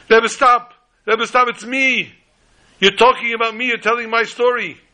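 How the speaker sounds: high, urgent acted cry to stop; mock scream, high and pleading; retold screaming and crying. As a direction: cry out as the panicked man, pitched well up. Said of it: "scream and to cry".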